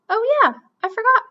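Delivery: sudden remembering. Acted. Brother remembers spirit shirt.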